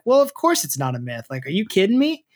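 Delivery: incredulous reaction, rising high at the end; mock disbelief. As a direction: scoff at an obviously silly claim. Voicing climber's disbelieving reaction.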